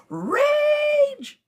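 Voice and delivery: high, laughing cry of the word; laughing exclamation. Real, not acted. Joking about her past anger, laughing high. Mocking her own old temper.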